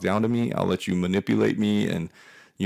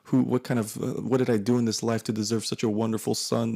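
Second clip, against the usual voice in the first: mom gushing; 3 semitones higher than usual. Retold or imitated. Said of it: "She's like".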